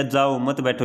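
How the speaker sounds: "जाओ", then "मत बैठो" as one phrase; group मत with बैठो, separate from जाओ; break after जाओ. Shown as a demonstration. Teacher explaining go, don't sit, break after जाओ. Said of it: "इसका मतलब चले जा भाई".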